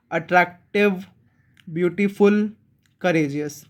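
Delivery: अट्रैक्टिव, ब्यूटीफुल, करेजियस each split in two; broken into two parts. Shown as a demonstration. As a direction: show the break inside अट्रैक्टिव, ब्यूटीफुल and करेजियस. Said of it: "two parts में break हो जाए".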